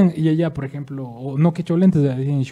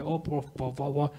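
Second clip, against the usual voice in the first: slow, halting gringo Spanish, softer; gringo accent; 6 dB quieter, slower than usual. Retold or imitated. Speaker imitating a gringo who struggles with Spanish, gringo accent. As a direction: stumble through Spanish like an American foreigner. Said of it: "viene el gringo y el gringo no habla así".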